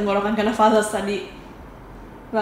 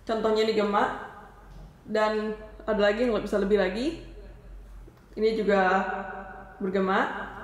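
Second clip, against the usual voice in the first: microphone echo; 6 dB quieter than usual. Shown as a demonstration. Presenter showing viewers the karaoke echo, echoing voice. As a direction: voice with added echo. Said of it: "kita bisa nambahin gema di sini".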